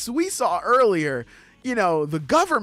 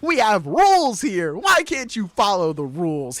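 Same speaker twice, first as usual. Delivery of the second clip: acted exasperated scolding; mock stern dad telling-off; strict; 2 semitones higher, 3 dB louder than usual. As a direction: plead loudly for the rules to be followed. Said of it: "He's very much, like, now strict".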